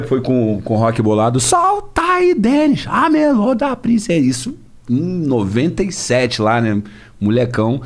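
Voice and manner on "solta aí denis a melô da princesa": high, slow hype announcer; DJ drop voice. Retold or imitated. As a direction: call it out like a funk DJ tag. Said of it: "Aí eu fiz a primeira".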